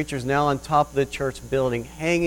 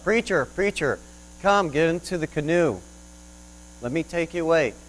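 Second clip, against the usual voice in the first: higher calling voice of a rescuer; 4 semitones higher than usual. Acted. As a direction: call up to the preacher from the canoe. Man in canoe calls out.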